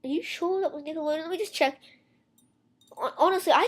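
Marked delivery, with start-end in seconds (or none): 0.0-1.8 lightly voiced mom, pitched up; doubtful mom. Mom questions whether it was really Nickelodeon, mildly doubtful. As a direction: imitate a mother politely double-checking, higher. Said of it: "the mom would come at me like".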